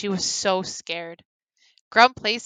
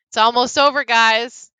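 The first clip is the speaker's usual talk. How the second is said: desperate call; 3 semitones higher, 9 dB louder than usual. Acted. Grum calling to captors.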